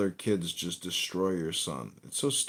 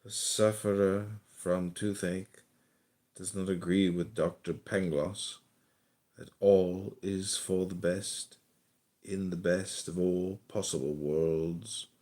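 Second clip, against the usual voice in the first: poem recital. Acted. Reading a poem aloud.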